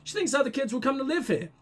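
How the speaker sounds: a hint of a little kid's lilt; chatty little girl. Little girl tells a visitor about her playmate, lightly voiced child. Reads little girl's answers.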